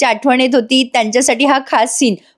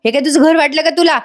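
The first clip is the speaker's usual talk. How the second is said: mild scolding; 4 semitones higher than usual. Acted. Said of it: "ती बाई ओरडून म्हणते".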